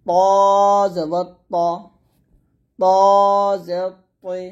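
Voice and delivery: thick ত from tongue tip at upper teeth roots; heavy ta. Shown as a demonstration. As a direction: hold ত long and heavy before জবর. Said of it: "তটা মোটা হবে". (ত মোটা করে উচ্চারণ)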